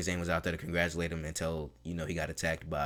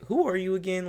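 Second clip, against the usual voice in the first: mock Kevin Owens; 12 semitones higher, 4 dB louder than usual. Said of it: "And Kevin's like".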